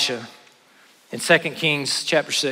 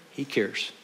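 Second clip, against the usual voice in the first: quiet reassurance; 2 semitones lower, 10 dB quieter than usual. Real, not acted. Reassuring answer to doubting question.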